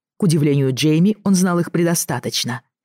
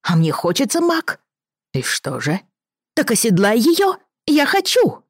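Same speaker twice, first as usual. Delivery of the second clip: put-on high, whiny little boy; a demanding child, pitched up; spoiled boy voice; 7 semitones higher than usual.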